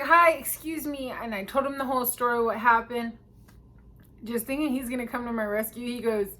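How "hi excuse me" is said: higher-pitched, polite attention-getter; re-enacted high "excuse me"; retold polite hail. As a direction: flag down a stranger politely, pitched up. Approaching a stranger for help.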